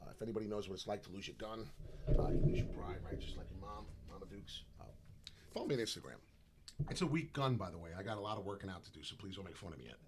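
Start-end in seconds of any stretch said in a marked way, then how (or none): none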